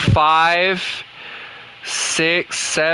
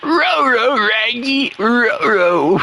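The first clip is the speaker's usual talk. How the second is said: higher, strained cartoon dog voice; Scooby-Doo; 4 semitones higher, slower than usual. Gamer narrating his mistakes as a cartoon dog, strained and higher. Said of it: "why do I make Scooby-Doo sound like he's straining".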